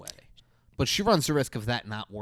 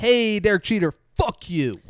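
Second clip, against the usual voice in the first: loud mock jab; 8 semitones higher, 9 dB louder than usual. Loud mock greeting at cohost.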